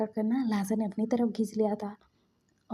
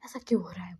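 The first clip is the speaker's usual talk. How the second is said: mock panic, stammering and uneven; retold distress in stuttered bursts; half-hearted cry of pain and denial; panicked screaming; faster than usual. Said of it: "चिल्ला रहा था".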